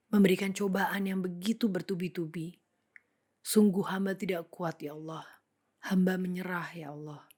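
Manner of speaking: mildly anguished plea to God, voice dropping at each sentence end; despairing prayer. Acted. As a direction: plead with God in understated despair. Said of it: "Lalu dalam kesedihan, dalam keputusasaan". (doa lirih penuh kesedihan dan keputusasaan)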